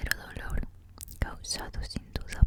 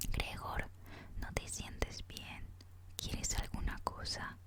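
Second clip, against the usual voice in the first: very soft, plaintive whisper; understated sisterly concern, hushed; gentle lament; 8 dB quieter than usual. A narrator's reading. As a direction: whisper it sweetly, like a faint lament. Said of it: "sonaba dulcemente como un lamento".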